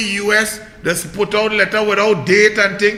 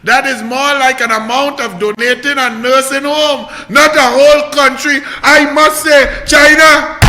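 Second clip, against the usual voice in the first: reading the tweet; 4 semitones higher, 4 dB louder than usual. Retold or imitated.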